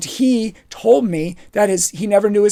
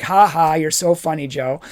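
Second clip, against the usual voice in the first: lower, dry mock laughter; sarcastic fake laugh; 3 semitones lower than usual. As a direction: roll your eyes at the joke. Sarcastic reply to teasing.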